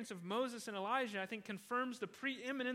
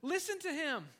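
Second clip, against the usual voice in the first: voice from heaven; 6 semitones higher, 4 dB louder than usual. Retold or imitated. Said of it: "a voice from heaven says".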